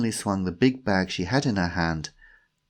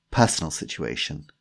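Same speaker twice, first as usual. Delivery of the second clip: tactful, halting delivery; awkward hesitation; 4 semitones lower than usual. Acted. Timothy broaches Tanya's love life, awkward hesitation. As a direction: say it carefully after a hesitant pause.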